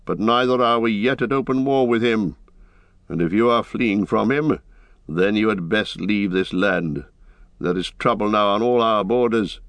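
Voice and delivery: lightly voiced formal horseman, building to demands; proud rider. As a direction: explain firmly, then interrogate. Eomer explains, then demands answers.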